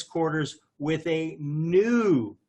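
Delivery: slow, weighted "new" at the end; stress on new. Shown as a demonstration. Reading the rule aloud, landing hard on "new". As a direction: lean on "new", drawing it out. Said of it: "I'm gonna emphasize the word new".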